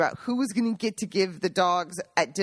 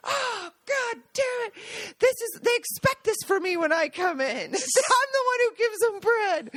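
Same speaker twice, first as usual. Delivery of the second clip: mock whiny complaint; 12 semitones higher than usual. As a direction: play Gaji as a mock-wounded grandpa who lost his job of giving out bread. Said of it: "And he goes".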